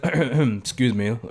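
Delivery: acted throat-clear, then slow "excuse me"; mock recovery from an outburst; composing himself. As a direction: clear your throat and pretend to regain composure. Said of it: "trying to compose himself".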